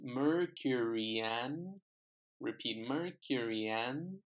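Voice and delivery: "Mercury and" slow, with a y glide into "and"; teacher models the y link for students, slow with a rising end; linking demo. Shown as a demonstration. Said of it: "can you hear the sound?".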